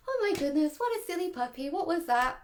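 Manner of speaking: light, playful singsong to a puppy; cheery nonsense fussing; upbeat puppy talk. Shown as a demonstration. Owner jollying a startled puppy along, upbeat. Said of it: "as long as it's upbeat".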